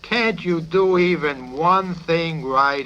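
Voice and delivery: high, loud, slow exasperated rage; raging plea. A narrator's reading. Psychiatrist raging at Yossarian across his desk, slow loud fury. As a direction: plead furiously, drawing it out. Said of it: "Major Sanderson flew into a rage".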